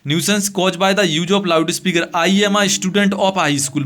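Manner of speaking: very slow, each word set apart; slow dictation. Shown as a demonstration. Teacher reading the letter line to students, very slow. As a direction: dictate it so they can copy it. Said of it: "teacher rereads dictation slowly".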